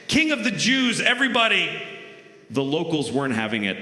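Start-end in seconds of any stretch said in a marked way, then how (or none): 0.1-1.7 high, loud hype man shout; hype crew. Acted. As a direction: announce the king to the crowd. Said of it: "his crew hyping him up like".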